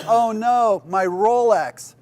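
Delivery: high, loud, slow mock wail over the lost watch; hammed-up moan of grief for a Rolex; punchline groan, drawn out and pitched high. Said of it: "the guy starts moaning again".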